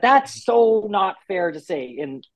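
mildly mock-indignant retort; imitated protest. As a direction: protest it on someone else's behalf. Acts out colleague's indignant reply.

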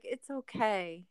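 soft, slow comforting; soothing. Retold or imitated. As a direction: gently reassure someone upset. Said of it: "coddle them and be like".

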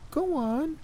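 put-on high flat old woman order; high cold granny. A narrator's reading. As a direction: command coldly. Gran voiced, cold command.

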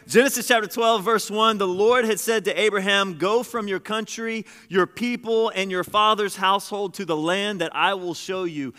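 preacher reading the text aloud; scripture reading. Acted. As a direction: proclaim the verse to the room. Reading scripture at full force.

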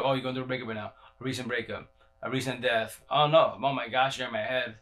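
quiet, lightly mocking psychic; robotic psychic. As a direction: drone it like a bored reader. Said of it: "That, that's robotic".

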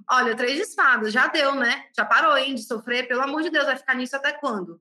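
mock impatient scolding; blunt, rude reader. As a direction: act out a tactless tarot reader telling someone off. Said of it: "qual a necessidade de ser grossa?". (imitando uma taróloga grossa e impaciente)

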